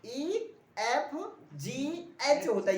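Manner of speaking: ईएफजीएच spelled out slowly, each letter clear; slow letter drill. Shown as a demonstration. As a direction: say ईएफजीएच with एच, not यच. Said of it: "यच नहीं".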